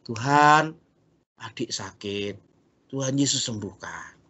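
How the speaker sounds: put-on a soft, hushed child's prayer; quiet prayer. Shown as a demonstration. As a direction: pray gently, very quietly. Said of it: "Kita ngomong saja sama Tuhan". (doa lembut dan pelan)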